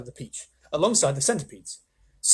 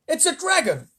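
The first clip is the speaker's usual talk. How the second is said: high, loud, slow frightened yells; panicked shouting; 9 semitones higher, 7 dB louder than usual. Acted. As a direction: cry out each monster name. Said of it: "They started shouting at once".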